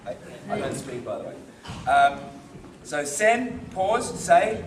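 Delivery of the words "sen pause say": sen, the word pause in the gap, then say; pause mid-word. Shown as a demonstration. Teacher recapping what is no good, paused mid-word. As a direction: break sen off before say. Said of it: "no good".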